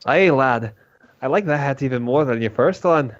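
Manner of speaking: put-on lightly accented character voice; in-character adventurer. Complimenting a companion on a hat, in character. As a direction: greet a lad in the adventurer's voice.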